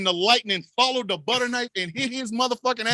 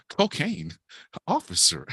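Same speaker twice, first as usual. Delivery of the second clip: laughing mock offer; 6 semitones lower, 4 dB quieter than usual. Offering cocaine to police.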